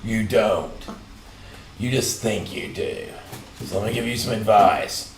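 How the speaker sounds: cult leader. Pretend. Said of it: "doesn't sound like a cult leader at all".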